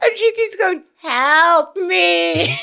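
high wailing help me, breaking into laughter; imitating the patient through giggles; laughing mock wail. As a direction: cry it out high while cracking up. Patient wails, teller laughing.

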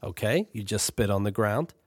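lightly voiced patient older brother.

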